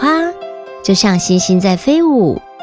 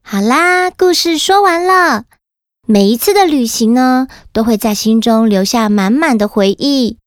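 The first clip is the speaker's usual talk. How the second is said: put-on kids show host. Host addresses children after story.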